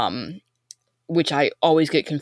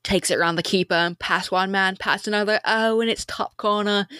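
excited British match commentary, climbing higher as the move builds; soccer announcer; 4 semitones higher than usual. Acted. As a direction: call the goal like a football announcer, then settle back down. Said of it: "announcers using that word to describe great soccer plays".

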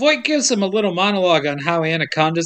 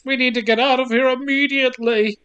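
higher-pitched mock British host; British host impression; 6 semitones higher than usual. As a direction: imitate an urgent British host. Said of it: "but the British host says".

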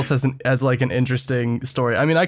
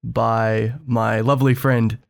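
golf announcer voice. Acted. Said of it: "I don't know why I'm doing this weird golf announcer voice".

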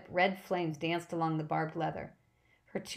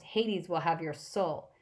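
menacing promise; slower than usual. Acted. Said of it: "she promised".

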